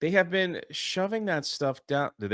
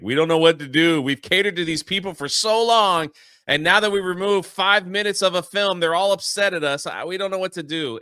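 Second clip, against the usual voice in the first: raised, louder imitation of studio exasperation; put-upon mock protest; mock helpless complaint; 3 semitones higher, 3 dB louder than usual. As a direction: whine as a beleaguered movie studio. Mimicking exasperated Pixar and Disney.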